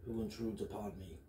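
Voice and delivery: lightly voiced demonic kobold. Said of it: "in a demonic voice say".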